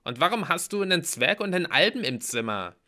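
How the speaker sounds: high, loud, irritated questioning; grumpy Mallory. A narrator's reading. Mallory interrogates hero about his guests, crossly. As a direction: demand an explanation crossly. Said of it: "Mallory sah mich übellaunig an".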